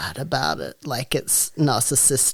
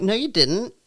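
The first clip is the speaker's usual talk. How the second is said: retold retort; 8 semitones higher than usual. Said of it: "I'm like".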